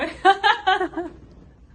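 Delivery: loud, high burst of laughter; hearty laugh. Real, not acted. She laughs at her brother calling her crazy, loud laughter. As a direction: laugh out at the punchline.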